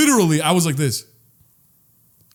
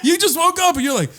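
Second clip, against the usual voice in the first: laughing; 5 semitones higher than usual. Real, not acted. Laughing while retelling waking up.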